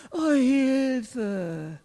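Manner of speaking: limp mock cry for help; drawn-out, listless call; half-hearted scream. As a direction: imitate someone who can't really scream. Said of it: "kannst du nicht schreien?".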